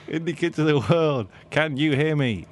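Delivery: laughing through a rallying call; rally the crowd, cracking up; announcing on a microphone. Acted. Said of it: "on the microphone at the main stage".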